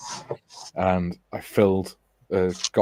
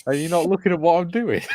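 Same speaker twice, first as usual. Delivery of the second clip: laughing through the line, higher; laughing tease; 10 semitones higher, 3 dB louder than usual. Retold or imitated. Teasing the workmate about the fake hand, laughing. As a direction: giggle out the question. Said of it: "And I went".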